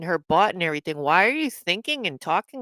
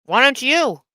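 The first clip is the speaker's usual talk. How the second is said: sharp retort; 5 semitones higher, 4 dB louder than usual. Real, not acted. Retort in heated argument.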